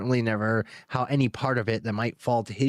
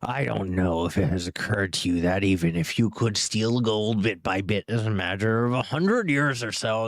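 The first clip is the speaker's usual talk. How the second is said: dragon voice. Shown as a demonstration. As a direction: taunt the hobbit as a sly dragon. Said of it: "Wrong voice there".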